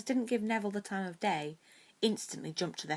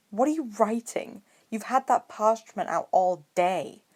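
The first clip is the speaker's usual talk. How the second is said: nosy; 5 semitones higher, 9 dB louder than usual. Acted. Draco nosy question.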